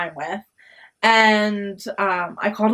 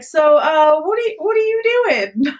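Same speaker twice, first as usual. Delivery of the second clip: high, puzzled guy voice, pitched up; stunned guys; 7 semitones higher, 4 dB louder than usual. Retold or imitated. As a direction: play the gawking friends, baffled. Boys stunned seeing her in dress.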